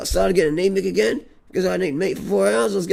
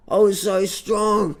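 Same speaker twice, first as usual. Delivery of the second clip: slow boast; much slower than usual. Acted. Boasting after eating meat.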